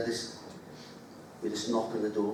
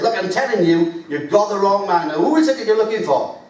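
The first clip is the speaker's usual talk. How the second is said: exasperated, louder; 7 semitones higher, 8 dB louder than usual. Retold or imitated. Mandela losing patience.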